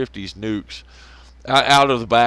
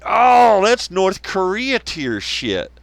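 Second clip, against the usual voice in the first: mock awe; 5 semitones higher than usual. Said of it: "And I was like".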